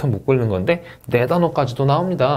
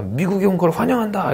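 welcoming teacher; 6 semitones higher than usual. Retold or imitated. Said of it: "여러분들 앞에서는 뭐예요?".

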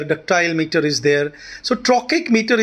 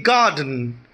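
"garden" stressed on "gar", slowly; slow "garden", weight on the first syllable; GARden, second syllable unstressed; 5 semitones lower than usual. Shown as a demonstration. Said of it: "first syllable is stressed".

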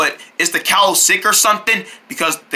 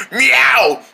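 cat meow; 4 semitones higher than usual. Pretend. Cat imitation.

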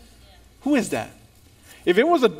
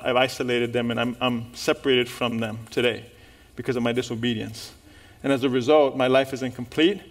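despairing confession; 7 semitones lower, 5 dB quieter than usual. Retold or imitated. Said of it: "quoted despairing congregant".

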